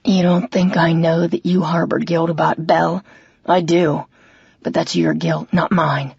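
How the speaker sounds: a hint of a brother admitting his demons; remorseful River.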